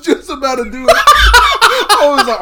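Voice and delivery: words squeezed out through high laughter; giggling through the words; laughing. Real, not acted. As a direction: laugh helplessly while talking. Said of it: "holding back there to do an accent".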